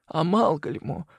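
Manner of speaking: high, slow, fragile woman's plea; a dying mother begging for her children; dying woman, pleading. A narrator's reading. Celeste pleading with Leo, high and slow.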